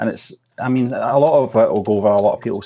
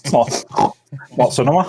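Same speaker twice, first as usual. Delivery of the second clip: snobby critic; 4 semitones higher than usual. Pretend. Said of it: "putting my sort of snobby sort of head on".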